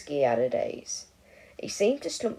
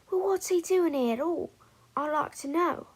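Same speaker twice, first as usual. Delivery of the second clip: higher, a touch louder, huffy; a second witch, mildly indignant; 7 semitones higher, 3 dB louder than usual. A narrator's reading. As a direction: demand an answer.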